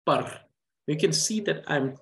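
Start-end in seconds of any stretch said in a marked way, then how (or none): 0.0-0.4 par with the R rolled and held long; stretched rolled R. Shown as a demonstration. Teacher showing a syllable read with its R rolled out. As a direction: give the R in par time to stretch and roll. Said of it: "putting emphasis on the rolling R sound".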